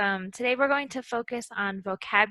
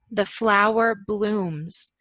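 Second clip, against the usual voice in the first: slow example; slower than usual. Shown as a demonstration. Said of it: "So when a flower opens".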